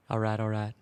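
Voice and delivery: a hint of a laid-back Texas charmer; Matthew McConaughey impression. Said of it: "Matthew McConaughey impression".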